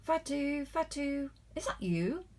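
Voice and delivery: high repeated call. Acted. The baker calls Fatu from his bakery, high calling voice. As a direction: catch her attention as she hurries.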